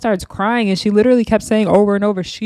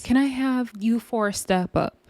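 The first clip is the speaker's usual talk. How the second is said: mock TV-host delivery, softer; Tyra Banks; 3 semitones higher, 6 dB quieter than usual. Host calls four girls up, lightly mocked presenter voice. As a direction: lightly imitate a dramatic show presenter. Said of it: "girl, sound like Tyra Banks".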